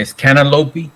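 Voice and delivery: "cantaloupe" said kan-uh-loh-pee with an added ee; "cantaloupe" ending in a long ee; cantaloupey. Real, not acted. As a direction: tack a Y sound onto "cantaloupe". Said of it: "with the Y at the end".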